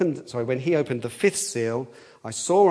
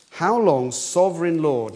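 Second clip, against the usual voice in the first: raised, earnest plea, not bitter; cry for justice; 3 semitones higher, 5 dB louder than usual. Acted. Martyrs appealing to the sovereign Lord, earnest. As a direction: call out for justice without bitterness. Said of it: "not a bitter cry, but a cry for justice".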